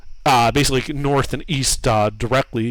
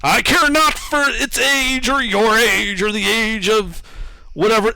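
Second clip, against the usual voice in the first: booming statue voice; 6 semitones higher than usual. Acted. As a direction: lord it over them, booming.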